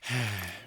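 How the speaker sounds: soft sigh before speaking; hesitant sigh. Acted. Newcomer about to bring up a touchy subject, soft sigh. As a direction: let out a quiet, uneasy breath.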